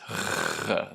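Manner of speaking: a rasping sound at the back of the throat; gargle-like rasp from the uvula; throaty fricative demo; uvular fricative demo. Shown as a demonstration. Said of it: "and it sounds like this".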